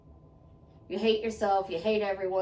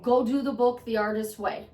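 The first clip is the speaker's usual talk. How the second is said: emphatic repeat. Shown as a demonstration. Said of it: "Don't run amok".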